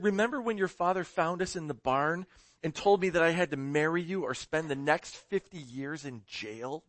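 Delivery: mock-tearful husband reminiscing; lightly acted holding back of tears; choking back tears. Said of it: "As he chokes back the tears".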